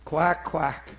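deadpan spoken quacking; duck quacks. Pretend. Preacher playing the sitting duck, deadpan quacking. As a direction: toss off two small mock quacks.

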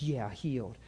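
low, quiet mock grumble; understated imitation of a man who's mad; angry grumbling. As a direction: grumble it dismissively, acting out someone sore. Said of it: "He got so angry".

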